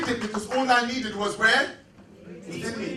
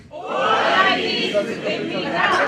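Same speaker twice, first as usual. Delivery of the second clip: said like you mean it; 3 semitones higher, slower than usual. Shown as a demonstration. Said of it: "Or say it like you mean it".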